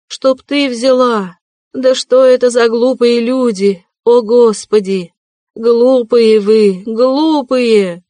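высокий громкий крик на толпу, «глупые» протяжно; возмущённо отчитывает всех вокруг; гневный крик. A narrator's reading. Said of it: "кричала она, обращаясь ко всем". (Катерина Ивановна гневно кричит на толпу)

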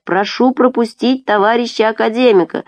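official shout. A narrator's reading. Murat clearing a path for the academician, shouting. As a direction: call over the crowd to clear a way. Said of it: "кричит Мурат".

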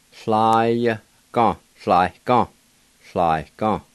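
"Fly, gone" repeated slowly for learners; Cherokee pronunciation. Shown as a demonstration. Teacher demonstrating the blue jay word, slow and careful. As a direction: model "fly, gone" in measured beats. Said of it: "it's pronounced like this".

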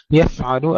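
يفعل with a still, hissing ف and no bounce; still, airy fa. Shown as a demonstration. Teacher isolates the word, airy unbounced fa. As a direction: let air run through the ف of يفعل, no echo. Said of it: "سكون الفاء مع الهمس بدون قلقلة".

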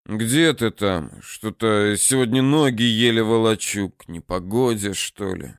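медленно, затихая к концу; устало бормочет, как больной старик; немощный голос. Acted. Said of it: "продолжая изображать немощного". (немощное бормотание)

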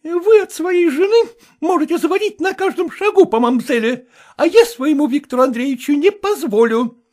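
high, shrill-free loud scolding; angry mistress. Acted. Jealous Vasilisa scolding the cook, high and angry.

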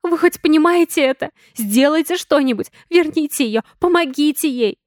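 high, loud desperate demands; yelling demands. A narrator's reading. Sonya yells at Valentine to bring her mother back. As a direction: shout at him to do something. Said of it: "заорала уже на него Соня".

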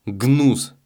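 громко и выше, с презрением; выплюнуть «Гнус!» с отвращением; презрительный крик. A narrator's reading. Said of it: "презрительно крикнул Челкаш". (презрительный громкий окрик)

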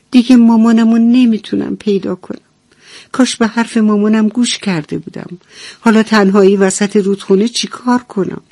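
a lost chick close to tears, pleading; lost little duckling. Acted. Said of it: "با خودش گفت".

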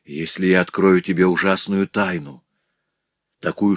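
ordinary delivery, nothing marked

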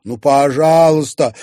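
loud, high begging plea; a girl begging the sheriff to let them watch; pleading. A narrator's reading. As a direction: beg him to give in. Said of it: "взмолилась девушка".

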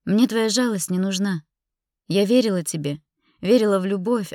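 indignant, wounded insistence; bitter reproach. Acted. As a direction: push his pity away. Rejecting his pity, reproaching him.

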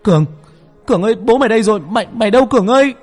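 high, loud urgent holler; frantic full shout into the distance. Acted. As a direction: yell for your missing friend. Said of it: "Tôi trụm tay mà hét lên".

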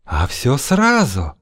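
slow, breathy sultry whisper; hot whisper. Acted. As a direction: breathe it hotly and slowly. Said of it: "жарко зашептала Феодосия".

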